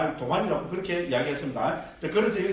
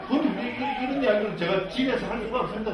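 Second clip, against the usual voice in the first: high-pitched, amused laugh in the voice; 5 semitones higher than usual. Real, not acted. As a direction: laugh through the words. Joking aside, laughing as he talks. (웃음 섞인 목소리로)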